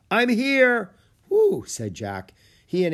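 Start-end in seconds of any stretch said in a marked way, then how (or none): 0.1-0.9 high, loud drawn-out holler; distant call. A narrator's reading. Guide answers boy from beyond the ridge, calling out. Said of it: "he heard a call". 1.3-1.6 high, loud whew of relief; relieved whew. A narrator's reading. Boy reaches the guide at last, relieved whew. Relief after climbing to the ridge.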